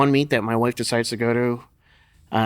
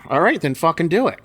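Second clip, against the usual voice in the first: gruff go-ahead; 5 semitones higher, 4 dB louder than usual. Retold or imitated. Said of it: "Lou said".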